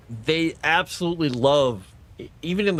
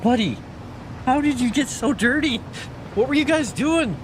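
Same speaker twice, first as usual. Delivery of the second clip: high pet talk; 10 semitones higher than usual. Real, not acted. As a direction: coo at the cat in disbelief. Cooing at her dirty cat.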